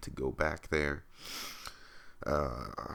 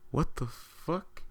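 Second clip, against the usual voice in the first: high, slow mock shout from a passing car; imitated yell; 12 semitones higher, slower than usual. Guys in a Mustang jeering at him, high mocking yell. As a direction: stretch it out high like a jeering stranger. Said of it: "They just shout at me".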